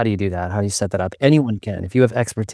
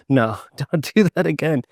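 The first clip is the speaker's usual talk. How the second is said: higher-pitched imitation of a British objector; playful British-accented telling-off; mock British accent; 5 semitones higher than usual. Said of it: "if I do a British accent for Brits".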